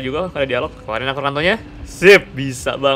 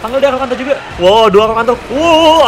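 excited; 10 semitones higher, 8 dB louder than usual. Real, not acted. Two big dinosaurs fighting.

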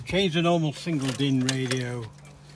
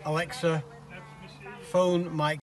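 voice command; 3 semitones higher, slower than usual. Shown as a demonstration. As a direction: spell it out for the speaker. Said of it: "if I want to make a phone call".

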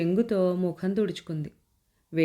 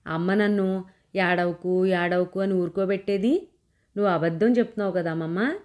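put-on mild childish protest; 2 semitones higher than usual. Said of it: "కోపంగా చూశాను".

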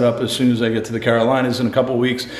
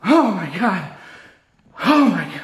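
real high-pitched startled panic; 8 semitones higher, slower than usual. Real, not acted. Ghost hunter reacting to a sudden scare, panicked. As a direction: gasp out each cry in fright. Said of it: "I sound like a little girl".

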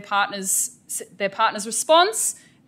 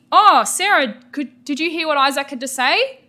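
modelled teacher prompt; 5 semitones higher, 5 dB louder than usual. Shown as a demonstration. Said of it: "I need to say".

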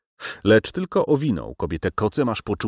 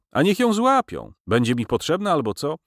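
slightly trembling, breathless; 5 semitones higher than usual. Acted. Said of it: "Głos mu nieco drgał, jakby w zadyszce".

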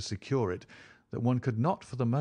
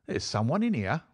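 raised, urgent call to companions; crying out; 5 semitones higher than usual. A narrator's reading. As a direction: call out the discovery, higher. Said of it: "cried Lestrade".

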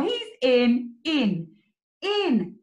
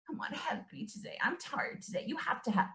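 mock tired; 3 semitones lower, 12 dB quieter, faster than usual. Teacher pretends to be tired.

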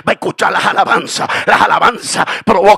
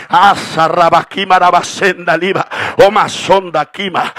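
rapid ecstatic glossolalia; preacher praying in tongues; speaking in tongues. Real, not acted. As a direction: pour it out in tongues.

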